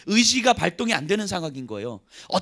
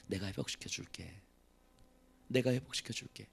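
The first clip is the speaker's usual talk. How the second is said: low, soft, tender promise; tender voice of God; 10 semitones lower, 12 dB quieter than usual. Acted. God speaking softly to a weary soul, tender. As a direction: gently reassure. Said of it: "이렇게 말씀하시는 거죠".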